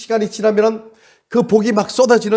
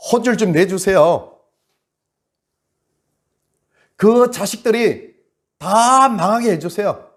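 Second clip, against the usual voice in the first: slow, pressing plea against enemies; a man begging God to punish his foes, drawn out and heavy; cursing prayer; slower than usual. Retold or imitated. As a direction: drag out the words in bitter prayer. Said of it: "자기 한한 그걸 그대로 막 하나님 앞에 펼쳐냅니다".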